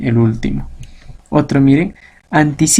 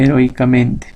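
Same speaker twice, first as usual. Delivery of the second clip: "heroicamente" with the accent landing on MEN; stress on MENTE. Shown as a demonstration. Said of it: "En el término mente".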